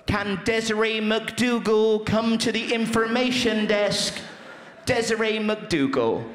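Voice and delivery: lightly mimicked airport announcer; tannoy announcement. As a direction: announce the name over the PA, drawn out. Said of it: "I overheard this on a tannoy".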